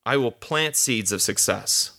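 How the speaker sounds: slow, firm, stress on "plant"; deliberate confident affirmation; with conviction. Shown as a demonstration. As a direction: say it as settled fact. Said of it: "You have to say it with conviction".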